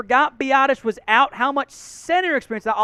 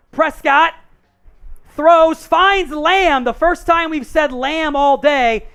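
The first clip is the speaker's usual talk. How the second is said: raised, punchy sports call; live play-by-play; 4 semitones higher, 5 dB louder, slower than usual. Real, not acted. Host calls a pass to Lamb for viewers, play-by-play. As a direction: call the catch as it happens, louder on the key words.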